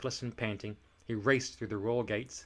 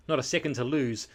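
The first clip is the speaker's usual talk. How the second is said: louder, breathless urgent gasp; 3 semitones higher, 6 dB louder than usual. Acted. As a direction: gasp it out in a rush. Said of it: "gasped Eric".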